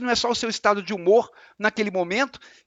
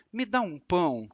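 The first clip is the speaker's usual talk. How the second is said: soft polite request; 5 dB quieter than usual. Shown as a demonstration. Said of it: "alguém pode interpretar aquilo como".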